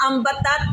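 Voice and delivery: अम्बतत jolted, without the long steady M; अम्बतत read with a shake on the syllables; wrong shaken reading. Shown as a demonstration. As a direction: bounce through अम्बतत with the hum cut short. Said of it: "हिला के नहीं पढ़ना".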